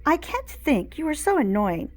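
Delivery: 少し高めの声で怒鳴る; 苛立ちを込めて叫ぶ; yelled. A narrator's reading. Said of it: "yelled Chloe".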